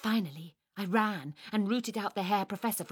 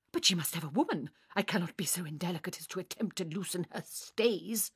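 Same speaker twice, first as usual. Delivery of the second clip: fast, fussy professor's protest; prim Herr Professor; faster than usual. Acted. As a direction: object hurriedly out of modesty.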